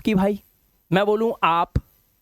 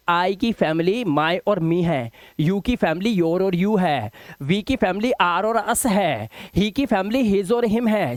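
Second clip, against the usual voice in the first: slow rhythmic recital; slower than usual. Shown as a demonstration. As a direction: recite "I की family my और me है" slowly, word by word. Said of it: "ये जिस तरह से मुझे table याद है ना". (टेबल को धीरे-धीरे लय में रटवाना)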